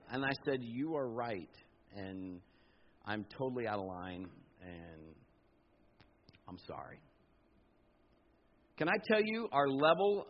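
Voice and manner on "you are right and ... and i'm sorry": softer and fading to a hush; meek retold apology; humble apology. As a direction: back down gently and go very quiet.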